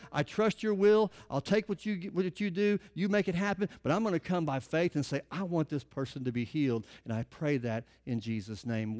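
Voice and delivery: prayer voice. Shown as a demonstration. Preacher showing his church how to pray, earnest prayer voice. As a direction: pray it humbly, trusting.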